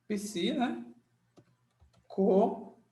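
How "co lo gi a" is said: "Co-lo-gi-a" with a beat on each syllable. Shown as a demonstration. ("Co-lo-gi-a" sílaba por sílaba)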